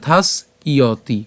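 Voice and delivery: "থাস ইয়তি" broken as thaas, iyo-ti; split y-glide pronunciation. Shown as a demonstration. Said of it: "ইয় হবে". ("থাস ইয়তি" ভেঙে, জফলা ইয়-র মতো)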